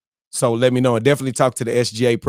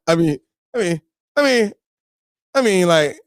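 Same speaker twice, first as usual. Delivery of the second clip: a light, higher Italian-American mobster lilt; Italian gangster movie talk; 7 semitones higher than usual. Retold or imitated. To his livestream viewers, a playful movie-gangster voice. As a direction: play a movie mob guy, loosely. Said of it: "that's how them Italian gangsters talk in the movies".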